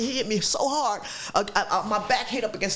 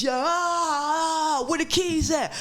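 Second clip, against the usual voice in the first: high, shouted demand for the keys; a mock threatening yell at the attacker; 7 semitones higher, much slower than usual. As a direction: yell it at him, pinned down.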